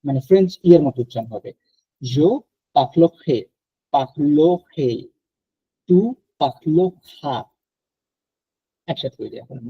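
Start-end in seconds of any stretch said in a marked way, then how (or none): 2.0-7.4 পাখলো খে said with a guttural French r from the throat; পাখলো খে demonstrated with a throaty uvular r; French future with throaty r. Shown as a demonstration. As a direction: roll the r of পাখলো খে at the back of the throat. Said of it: "গলার মধ্যে এক এক আসতেছে".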